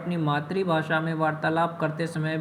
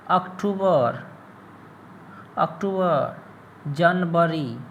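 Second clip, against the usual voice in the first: put-on Bihari accent; slower than usual. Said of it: "ये Bihari style Bihar तक ठीक है".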